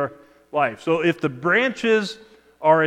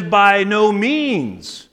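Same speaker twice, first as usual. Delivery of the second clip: emphatic, drawn-out mock indignation; raised, slow, indignant quoting of Paul; 4 semitones higher, 4 dB louder, much slower than usual. Preacher voices Paul rejecting his own question, indignant. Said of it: "hear the indignation in his voice".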